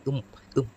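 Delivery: உம் said twice as separate closed syllables; M consonant sound. Shown as a demonstration. Teacher answering own question for learners, உம் sounded twice. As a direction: sound out உம், ending on a hummed M. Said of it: "அதனுடைய உச்சரிப்பு என்ன?".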